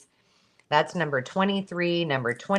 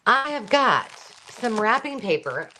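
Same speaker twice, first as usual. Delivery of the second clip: auctioneer voice; 6 semitones higher than usual. Acted. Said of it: "I've been practicing my auctioneer voice".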